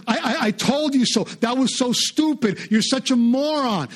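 mock gloating insult. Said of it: "You don't say".

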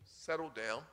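soft, hushed and steady; father murmuring low to his screaming son. Retold or imitated. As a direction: keep it low and calm, just for the child. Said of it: "In a very low voice".

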